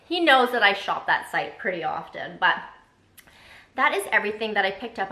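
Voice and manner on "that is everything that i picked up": breathless, rushing the words; out of breath from talking fast. Real, not acted. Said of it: "I'm out of breath. I'm talking so fast".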